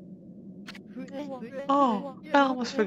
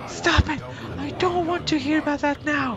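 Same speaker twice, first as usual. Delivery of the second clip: yell; 5 semitones higher than usual. Acted. Yelling at the nagging voice.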